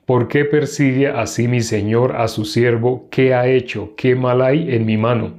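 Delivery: measured Bible reading aloud; scripture reading. Acted. Teacher reads David and Abisai's night raid, measured scripture reading. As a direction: read the chapter out evenly, phrase by phrase.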